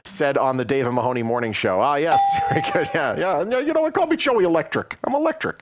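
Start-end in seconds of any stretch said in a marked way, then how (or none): 3.4-5.6 hyped mock boast. Host boasting on air, high excited mock brag. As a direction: pitch jumps way up, playful bragging. Playfully claiming mob nickname.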